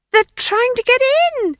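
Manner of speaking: high, loud frightened scream. Acted. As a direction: scream the warning. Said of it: "she screamed".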